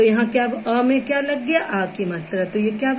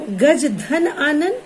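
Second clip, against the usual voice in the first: slow spelled-out; 4 semitones higher, much slower than usual. Shown as a demonstration. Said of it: "teacher spells out the compound".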